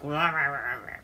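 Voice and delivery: low "rah rah" imitation of ranting; mock angry grumbling. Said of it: "just pissed off".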